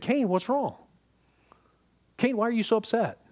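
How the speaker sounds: voicing God gently asking, without anger; sincere concerned question. God asking upset Cain what is wrong, sincere concern. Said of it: "this is not God's anger speaking. This is God asking a legitimate question".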